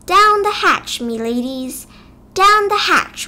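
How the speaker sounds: loud, high table-pounding yell; pirate yell. A narrator's reading. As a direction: bellow it like a rowdy pirate captain. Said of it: "pounded his fist on the table and yelled".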